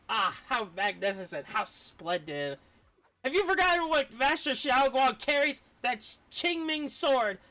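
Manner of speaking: a hint of playful bickering voices; lightly voiced bickering characters. Streamer reading two characters arguing, lightly acted. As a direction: read both sides like a squabble. Reads character dialogue aloud.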